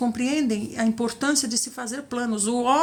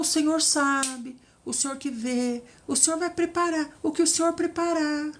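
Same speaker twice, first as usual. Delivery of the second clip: passive bride; 3 semitones higher than usual. Pretend. Passive bride waiting on revelation, mock limp deference. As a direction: drag it out helplessly. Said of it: "Saia dessa passividade".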